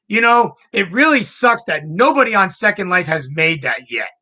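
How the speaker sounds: eager, wishing it existed; excited. Retold or imitated. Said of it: "She goes".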